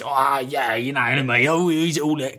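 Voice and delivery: rambling impression, running words together; Terry Venables. Man chatting on during the walk, imitated slow ramble. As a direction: imitate chummy, drawn-out waffle. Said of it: "Terry Venables".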